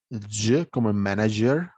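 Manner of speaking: "J" voiced as the dg sound in "manager"; teacher modelling the j of "manager"; consonant demo. Shown as a demonstration. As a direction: demonstrate a hard j, as in "manager". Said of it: "vamos a tener sonidos de consonantes".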